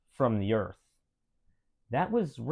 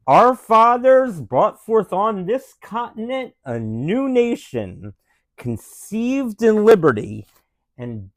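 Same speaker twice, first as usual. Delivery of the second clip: Abraham Lincoln voice. Acted. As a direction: read it like a president at a memorial, with only a hint of Lincoln. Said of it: "in Abraham Lincoln voice".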